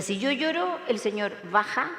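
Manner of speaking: lloro said plainly, then el señor baja falls low; dropping tune on baja. Shown as a demonstration. Widow mocking the advice, falling on baja. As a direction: let the line sink as the soul goes down. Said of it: "O sea".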